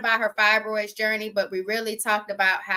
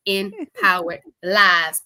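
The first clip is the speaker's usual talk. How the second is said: laughing; 4 dB louder, slower than usual. Real, not acted. Laughing while saying podcast name.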